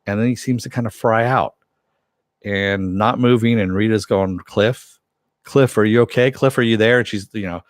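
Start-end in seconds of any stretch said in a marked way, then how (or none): 4.4-7.0 mild mock yell to rouse someone; half-hearted retold yell; Rita yelling. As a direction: imitate calling to someone unresponsive, slightly raised. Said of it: "just yelling at him".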